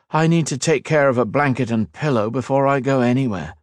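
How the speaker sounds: drowsy, yawning tired voice; sleepy. Acted. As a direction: talk through a yawn, sleepily. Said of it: "Kat yawned".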